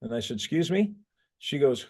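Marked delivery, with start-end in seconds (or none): 0.4-0.9 high, questioning rise at the end; retold puzzled reaction. Instructor retelling his reply to a student's demand, puzzled. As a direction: mimic being caught off guard, voice lifting. Taken aback by a blunt question.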